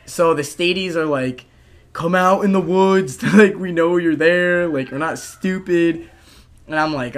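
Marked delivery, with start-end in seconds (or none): 1.9-6.1 sing-song taunting call into the woods; mocking taunt. Friends taunting him to come out of the woods. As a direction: taunt him like a know-it-all kid.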